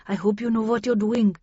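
a touch of worry in a put-on voice; mildly anxious. A narrator's reading. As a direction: voice mild concern for a colleague. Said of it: "said in an anxious tone".

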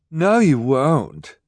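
high, slow, snapping snob; bossy Esme. Acted. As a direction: shut him down haughtily. Esme cuts him off.

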